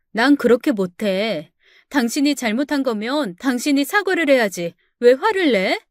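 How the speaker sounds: rising, exasperated pushback; indignant wife. Acted. Wife pushes back at her husband's old-fashioned demands, indignant. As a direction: refuse to back down.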